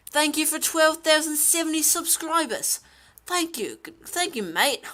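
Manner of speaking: put-on playful Australian accent. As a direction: thank them like a cheery Australian. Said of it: "I'll say anything you want".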